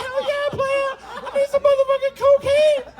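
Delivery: very high, loud, laughing yell; eager yell. Retold or imitated. The driver begging the passenger for cocaine, very high and loud. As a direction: holler it, desperate and thrilled. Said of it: "And I was like".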